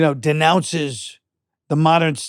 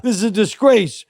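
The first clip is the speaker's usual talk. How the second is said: mock indignant heckle, higher-pitched; hammed-up outrage, pitched up; Ignatius; 5 semitones higher than usual. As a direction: play at yelling at a movie screen, without real volume. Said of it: "just to yell at the screen".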